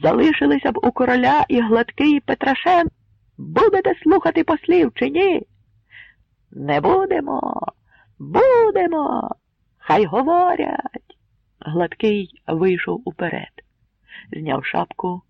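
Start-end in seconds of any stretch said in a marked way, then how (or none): 0.0-5.5 loud, high demanding shout. A narrator's reading. Hetman shouting down the crowd. 6.5-11.2 high slow clashing shouts; crowd shouting. A narrator's reading. Crowd shouting over each other.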